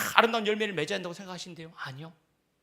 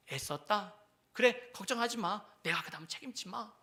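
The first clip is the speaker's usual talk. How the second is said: softer, gentle comfort; tender God; 5 dB quieter than usual. Acted. God comforting a worn-out believer, soft and tender. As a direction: soothe the tired one. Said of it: "그러실 것 같으세요? 아니요".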